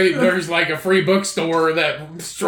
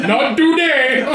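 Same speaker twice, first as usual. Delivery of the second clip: mocking imitation; 5 semitones higher, slower than usual. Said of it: "do you sound like Matumbo".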